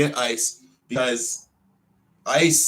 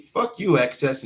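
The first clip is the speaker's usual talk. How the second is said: real angry cursing, voice raised; angry outburst; 2 semitones higher, 4 dB louder than usual. Real, not acted. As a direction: lash out at those who wronged you. Cursing those who dropped him.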